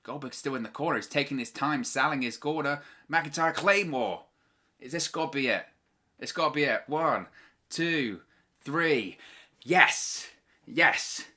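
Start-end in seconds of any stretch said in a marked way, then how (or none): 3.1-11.2 excited cheer. Real, not acted. Title retained, cheering the pin.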